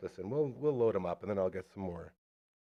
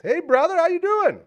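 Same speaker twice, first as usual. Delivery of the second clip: excited greeting; 7 dB louder than usual. Real, not acted. Greeting guest loudly.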